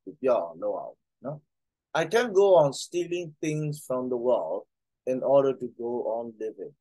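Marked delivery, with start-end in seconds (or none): 2.0-6.7 slow, careful reading aloud. Acted. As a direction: spell out the line slowly for learners. Reads English line slowly.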